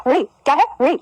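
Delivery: ऋ with the tongue curled to the palate; retroflex vowel model. Shown as a demonstration. Teacher modelling the letter for pupils, ऋ with curled tongue. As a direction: curl the tongue as for ट, then say ऋ. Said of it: "इसका उच्चारण सीख लो".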